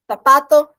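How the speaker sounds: Zapato with the tongue between the teeth, a lisped th; Spanish z sound. Shown as a demonstration. Teacher shows students the Spanish z, lisping. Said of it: "Botem a língua entre os dentes".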